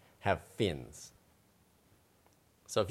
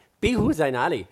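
playful punchline; 7 semitones higher, 8 dB louder than usual. Acted. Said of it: "You have to say".

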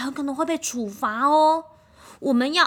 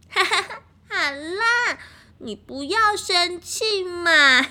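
giggling coaxing; 7 semitones higher, 5 dB louder, slower than usual. Acted. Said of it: "居然还是嘻嘻笑的".

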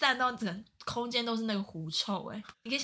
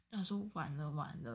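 whispered dread; 4 semitones lower, 7 dB quieter than usual. Retold or imitated. Class sinks at his arrival.

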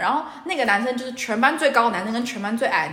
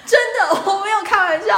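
insisting; 10 semitones higher, 6 dB louder than usual. Real, not acted. Insisting story is true.

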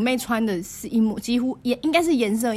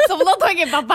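laughing; 9 semitones higher, 4 dB louder, faster than usual. Real, not acted. Friends laughing at the story.

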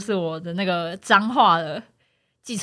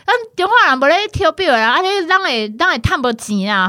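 mock Taiwanese driver; 4 semitones higher than usual. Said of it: "你的台语真的很烂".

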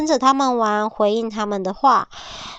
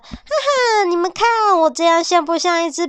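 much higher gleeful laugh-in voice; playful joking wolf; 8 semitones higher, 3 dB louder than usual. Acted. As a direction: clown around to make friends laugh. Wolf playing laughing joker.

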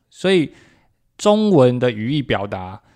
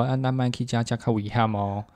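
gentle Taiwanese; 4 dB quieter than usual. Retold or imitated. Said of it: "你用台语跟他说".

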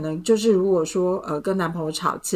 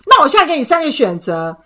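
higher, louder, slow ultimatum; reenacting her angry ultimatum, higher, louder and slow; furious ultimatum; 7 semitones higher, 9 dB louder than usual. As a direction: spell out the options in cold fury. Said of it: "在很盛怒的底下说".

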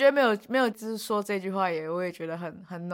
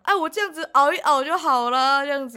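put-on stubborn old grandpa; 4 semitones higher, 3 dB louder than usual. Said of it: "很像那种顽固的老阿公".

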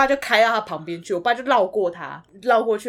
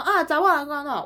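not just loud; 7 semitones higher than usual. Shown as a demonstration. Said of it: "不是大声说".

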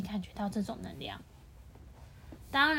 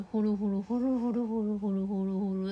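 rolling purr imitated for the child; cat purring sound; 2 semitones lower than usual. Reading a cat story to a child, imitating the purr. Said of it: "发出呼噜呼噜的声音".

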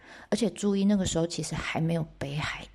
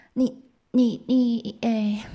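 loud, higher, halting start; acted stammer; 4 semitones higher, 5 dB louder, much slower than usual. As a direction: break off and restart, a touch flustered. Wife stammers at her husband.

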